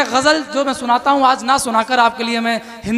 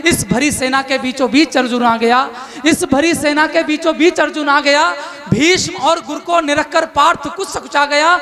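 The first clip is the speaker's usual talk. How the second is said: rousing declaimed verse; epic poem recitation; 3 semitones higher than usual. Acted. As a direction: declaim it to a poetry crowd.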